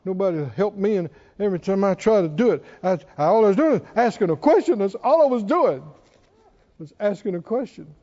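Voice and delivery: fast, mock self-pitying complaint; a touch of a sulky grumbler; imitating the whiny complainer; grumbling whine.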